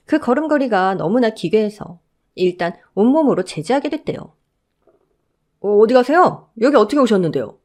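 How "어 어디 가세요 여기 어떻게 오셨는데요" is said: a firm guard stopping a stranger, a touch louder; security guard halting a visitor; lightly voiced guard. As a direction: block her way, politely firm.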